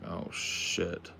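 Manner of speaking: whispered "oh, shit"; whispering in awe on the phone; whispered curse. Retold or imitated. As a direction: breathe it out as a whisper. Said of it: "I was like".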